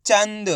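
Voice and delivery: "चंद" in one syllable, quick half n into d; blended word. Shown as a demonstration. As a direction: join "चंद" with no vowel after the n. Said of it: "तो मिलके बन जाएगा".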